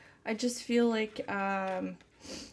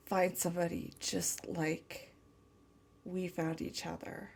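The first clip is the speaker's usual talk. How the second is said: tender channeled lover. Acted. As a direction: speak as if to the one you love, gently. Channels partner's loving message.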